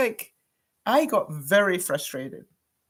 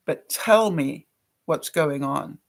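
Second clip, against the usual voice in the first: gentle coaxing; 4 semitones lower, slower than usual. Retold or imitated. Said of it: "he kept saying to them".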